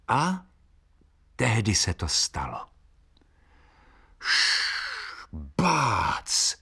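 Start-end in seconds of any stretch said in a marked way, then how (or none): 4.2-6.6 whoosh and bang. A narrator's reading. Brush falls down.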